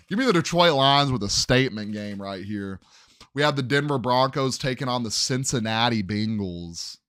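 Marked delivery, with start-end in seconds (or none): 0.1-2.8 louder, with a punchy confident push; hype-man announcement of the pick; emphatic, louder call. Shown as a demonstration. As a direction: declare it like a bold lock. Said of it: "I don't know why I said that like that".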